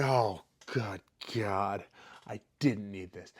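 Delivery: slow breathy whisper of despair; whispered dismay. Retold or imitated. Fighter hurt backstage before his bout, slow despairing whisper. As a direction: whisper it to yourself, dreading it. In pain just before stepping out.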